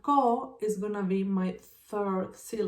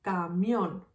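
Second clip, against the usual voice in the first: "Camión" with the weight on mión; lengthened, stressed mión ending "Camión"; stress on final syllable. Shown as a demonstration. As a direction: lean on the last syllable of "Camión". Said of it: "Where do you hear the stronger syllable?".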